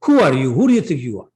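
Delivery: mildly indignant mock scolding, punched at the start; upset retort. Mother challenges her son's boast, mildly upset. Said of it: "she got really upset at that".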